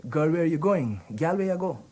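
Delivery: a friendly Guyanese street greeting; Guyanese Creole calling. Shown as a demonstration. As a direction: call out to a girl in Guyanese Creole. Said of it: "far more attractive than the proper way".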